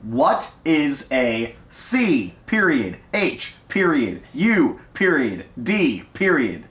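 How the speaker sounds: slowly spelling each letter; slow spelled out. Shown as a demonstration. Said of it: "It's gonna type in period".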